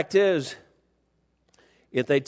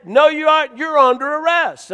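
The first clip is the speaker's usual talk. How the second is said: loud, higher voice overruling someone; retold officer's insistence; 9 semitones higher, 6 dB louder than usual. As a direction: lay down the law as the officer.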